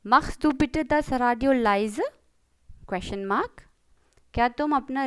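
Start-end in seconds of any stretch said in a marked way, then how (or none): 0.1-2.1 slow questioning repeat. Shown as a demonstration. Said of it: "अब सबसे पहले है".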